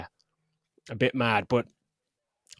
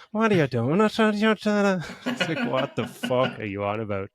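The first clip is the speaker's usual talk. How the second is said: laughing protest; 3 semitones higher than usual. Real, not acted. Reacting to being accused.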